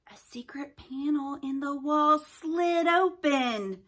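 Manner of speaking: slow whispered narration; hushed whisper. A narrator's reading. Narrator reveals the secret panel in a slow whisper.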